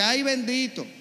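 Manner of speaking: family sighing over the vocation; mildly imitated pity; mock pity. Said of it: "te dice".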